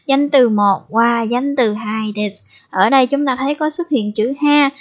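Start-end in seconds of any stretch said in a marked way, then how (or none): 0.1-2.4 slow pattern drill. Shown as a demonstration. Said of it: "chúng ta sẽ đi vào phần cấu trúc".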